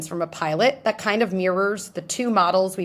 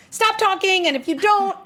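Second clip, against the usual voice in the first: much higher, louder, threatening like a parent; mock scolding boss; 11 semitones higher, 4 dB louder than usual. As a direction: scold the presenter with a silly threat. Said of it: "We have that first model".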